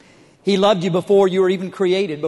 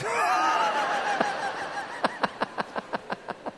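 high, whooping burst of laughter; big laugh; 10 dB quieter than usual. Real, not acted. Laughing at own story.

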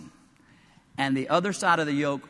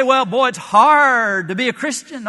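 a hint of a whiny grumbler; lightly voiced mock whiner; mock complainer; 8 semitones higher, 11 dB louder than usual. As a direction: grumble it like a tired churchgoer. Imagined complainer quote, mocking.

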